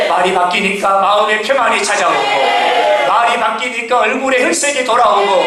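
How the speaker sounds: driving, repetitive sermon cadence; forceful preaching. Real, not acted. Preacher tells congregation what changed words brought, forceful preaching. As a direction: build each phrase toward the congregation's amen.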